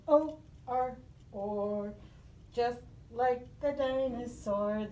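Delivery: a touch of dinosaur growl. Shown as a demonstration. Teacher acting a dinosaur for the class. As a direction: say it like a playful dinosaur. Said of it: "This is my dinosaur head".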